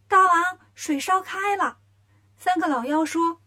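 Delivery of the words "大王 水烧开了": high, drawn-out minion announcement; little demon reporting. A narrator's reading. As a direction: call out to the king in a high voice. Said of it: "小妖去报告". (小妖高声拖腔禀报)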